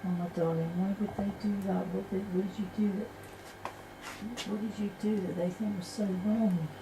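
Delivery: softly, with tender concern; real tender sympathy. Real, not acted. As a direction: comfort someone who has been hurt, keeping the voice soft. Consoling a beaten spirit.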